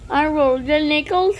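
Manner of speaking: chirpy sped-up complaint. Acted. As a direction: pitch it up and rush it, lift the end. Repeats line in new voice.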